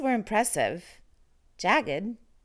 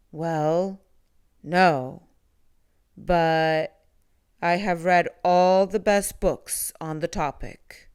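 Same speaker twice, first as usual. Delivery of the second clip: a lightly lower, breathy monster greeting; 3 semitones lower, 6 dB louder than usual. A narrator's reading. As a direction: breathe it out low like a gentle monster. Shy monster answers.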